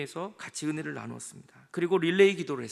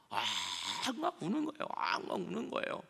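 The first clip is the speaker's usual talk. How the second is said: imitated loud wailing; 7 dB quieter than usual. Preacher showing what weeping bitterly means, mock wailing. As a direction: imitate bawling, without real tears. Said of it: "클라이오는 대성통곡의 울음이에요".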